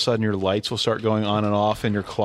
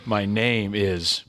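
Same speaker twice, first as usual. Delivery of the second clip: mock villain reveal. Cumberbatch impression, Khan reveal.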